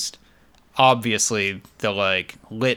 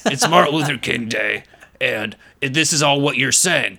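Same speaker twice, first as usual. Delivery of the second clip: gruff voice. Retold or imitated. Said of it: "he does, like, a gruff voice".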